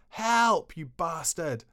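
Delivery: startled half-asleep man yelling for help; terrified cry. Retold or imitated. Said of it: "He went".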